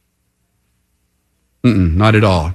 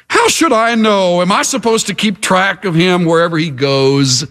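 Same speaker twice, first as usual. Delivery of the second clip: defiant; 2 semitones higher than usual. Acted. Cain answering God about his missing brother, defiant. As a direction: answer back like a mild rebel. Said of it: "you will see in living color defiance".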